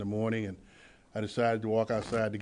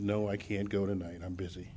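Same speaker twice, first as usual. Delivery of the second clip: softer, worn-down no; quiet refusal; 2 semitones lower, 5 dB quieter than usual. Retold or imitated. Refusing the same meeting invite again, quiet and tired. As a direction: turn her down again, quietly.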